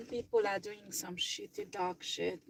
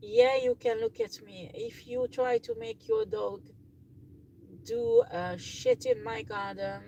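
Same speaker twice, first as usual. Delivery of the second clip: calling out angrily; 13 semitones higher than usual. Real, not acted. Yelling at a neighbour's teenager over his dog, much higher and angry. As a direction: shout him off your garden, much higher. Scolding teen whose dog fouls garden.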